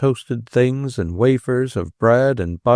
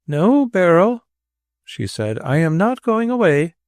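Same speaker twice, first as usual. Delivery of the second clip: outward calm; 6 semitones higher than usual. A narrator's reading. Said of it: "spoke with outward calm".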